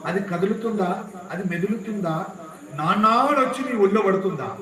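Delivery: insistent questions, rising to a loud finish; impassioned rebuke. Acted. Sage to a king weeping over the dead, rebuking. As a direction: press each question home forcefully.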